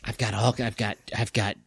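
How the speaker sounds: lightly voiced sly object coaxing; wheedling salesman tone, a bit low; tempting monocle voice. The cursed monocle begs to be worn, lightly wheedling.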